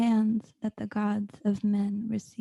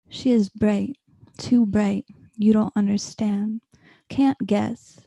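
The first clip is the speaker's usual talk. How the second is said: louder, insistent recital; emphatic reading; 10 dB louder than usual. Acted. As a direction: press the warning home. Repeated line, louder.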